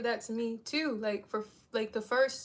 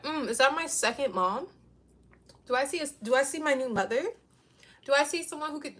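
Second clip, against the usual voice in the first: leering men; 2 semitones higher, 3 dB louder than usual. Retold or imitated. Men leering at boss woman.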